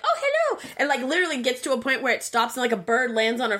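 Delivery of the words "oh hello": very high sweet hello; mock Disney princess. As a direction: coo it like a cartoon princess. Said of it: "everyone's like".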